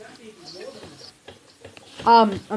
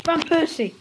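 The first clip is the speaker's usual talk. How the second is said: thrilled high cry of the name; excited shout; 7 semitones higher than usual. Real, not acted. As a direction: call the name out in delight. Good player pulled, excited.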